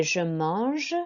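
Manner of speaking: slow French "mange", ending in zh; French nasal vowel. Shown as a demonstration. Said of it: "an A N is an en sound".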